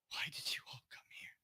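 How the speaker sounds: hushed, breath-only question; tearful whisper. Acted. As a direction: whisper it through held-back tears. Tearful character voiced before leaving.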